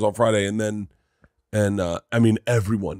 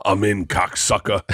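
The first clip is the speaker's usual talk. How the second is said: lightly voiced Joey on the phone; 3 semitones lower, slower than usual. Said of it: "And he goes".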